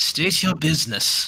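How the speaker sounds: brisk, slightly panicky voice. Narrator voices a challenge to arriving merchants, in a brisk booming voice. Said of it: "a very brisk voice booms into booms in your um head".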